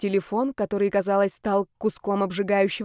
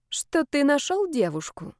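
put-on hurt girlfriend; 7 semitones higher than usual. A narrator's reading. Polina voiced, hurt.

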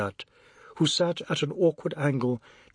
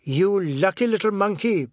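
taunting; 6 semitones higher, 5 dB louder than usual. A narrator's reading. Taunts boy he just missed.

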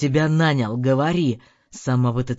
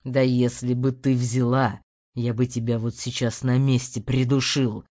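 menacing threat; 6 semitones lower, 3 dB louder than usual. A narrator's reading. Husband threatening the maid.

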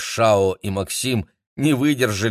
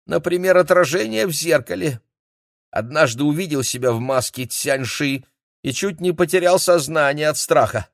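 насмешливый Юнь; 7 semitones higher than usual. Acted.

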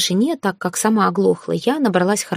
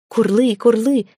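delighted dragon; 4 semitones higher, slower than usual. Acted. Dragon happily pushes the grass ball back, gleeful coo. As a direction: coo with glee over the game. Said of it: "обрадовался он".

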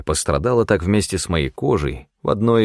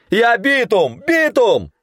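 high desperate yell, much higher; 3 dB louder, slower than usual. A narrator's reading. Hunter yelling his name at the armed men. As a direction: scream it to be let in. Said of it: "орал я".

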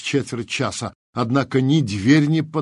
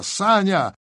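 high-pitched call, moderately raised voice; yelling; 7 semitones higher than usual. A narrator's reading. Trapped Tigran to Sanya outside, restrained yell. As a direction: call out urgently through a shut door. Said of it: "заорал он".

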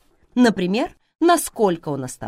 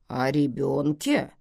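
puzzled; 2 semitones lower than usual. Acted. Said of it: "недоумённо переспросила Мьё".

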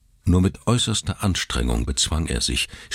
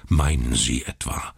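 grumbling; 4 semitones lower than usual. Acted. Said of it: "brummte er".

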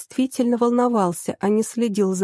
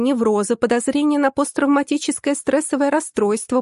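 higher-pitched, heated rattling-off of items; exasperated, raised-pitch enumeration; indignant listing; 4 semitones higher than usual. Acted. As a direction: reel off the list, affronted. Indignant list of her diagnoses.

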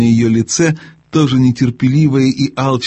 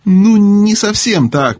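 mumbling; 9 semitones higher, 3 dB louder, slower than usual. Acted. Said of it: "промямлил Дигори".

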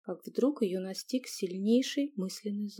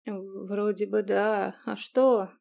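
slow, drowsy half-awake answer; sleepy stumbling reply; slower than usual. Acted. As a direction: mumble like just woken. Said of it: "сонно отозвался он".

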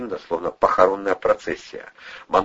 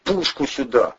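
mildly barked, raised-pitch demand; barked order; 5 semitones higher than usual. A narrator's reading. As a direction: bark for the weapon. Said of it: "рявкнул Андрей".

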